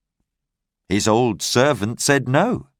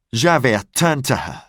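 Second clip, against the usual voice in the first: plain reading voice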